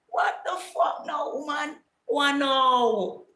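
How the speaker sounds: very high-pitched, disbelieving squeal; mock outrage, voice shooting way up; shocked outburst. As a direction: recoil in loud, hammed-up disbelief. Acted outraged reply to mother's condition.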